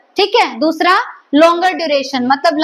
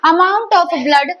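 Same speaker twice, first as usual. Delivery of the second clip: very slow, word by word, for notes; dictating at writing speed; slow dictation; much slower than usual. Shown as a demonstration. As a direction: spell it out slowly so students can write. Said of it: "teacher dictating a definition".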